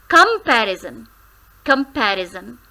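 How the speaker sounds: comparison, com stressed; comparison, hit com. Shown as a demonstration. Teacher repeating comparison, com stressed. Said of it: "we put stress on the first syllable".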